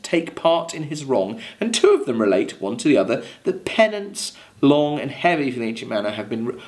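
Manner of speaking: measured recital of verse; poem reading. Acted. Teacher reading the Rime aloud to class, measured recital.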